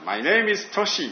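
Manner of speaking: a slow, careful mock English introduction; English self-introduction. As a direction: spell out "Toshi" slowly in English. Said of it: "って言ってですね".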